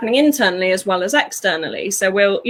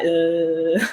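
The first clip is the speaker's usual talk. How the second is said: low, blank mock zombie grunt; 5 semitones lower than usual. Person lost in their head, blank mock zombie grunt. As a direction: groan like a dazed zombie. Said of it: "you're a bit like".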